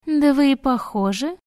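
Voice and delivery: put-on high, cheerful chattering girl; cartoon princess.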